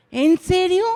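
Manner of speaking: high, loud "really?"; can't believe your ears; surprised disbelief. Retold or imitated. Teacher hearing a silent pupil speak, loudly surprised.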